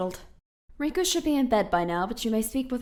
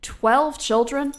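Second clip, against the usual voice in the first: slow, loud outraged rise on "Twelve"; can't believe what she just read; shocked question; 4 semitones higher, 7 dB louder, much slower than usual. Acted. Shocked at the contract clause.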